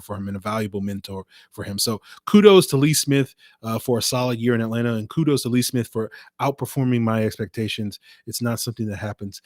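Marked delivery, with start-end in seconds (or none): 2.3-8.0 sarcastic kudos, loud at first; dry mock praise. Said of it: "I'm being sarcastic".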